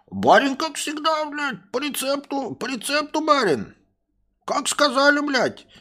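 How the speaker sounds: high, slow dopey voice; dim-witted servant. Acted. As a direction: make excuses to the master. Servant making excuses.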